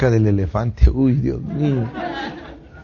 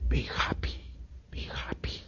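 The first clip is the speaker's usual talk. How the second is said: soft airy whisper; angel whisper; 17 dB quieter than usual. Acted. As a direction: breathe it gently into the ear. Los ángeles susurran. (susurro de ángel)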